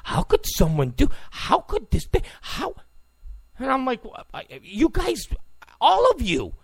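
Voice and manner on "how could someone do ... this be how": imitating shocked people, pitch climbing; mock disbelief. Host mimicking people shocked months ago, mock disbelief. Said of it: "people were just like".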